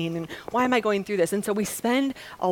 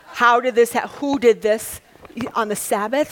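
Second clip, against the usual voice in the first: louder, clipped outrage at the news; indignant Pharisees; 3 semitones higher, 7 dB louder than usual. Retold or imitated. Preacher voicing Pharisees demanding who healed, indignant and loud. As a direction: demand to know who did it.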